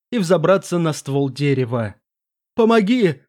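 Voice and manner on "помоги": desperate shout for help, higher; choking cry for help. Acted. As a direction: cry out, half drowning. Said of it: "захлебнулся он криком".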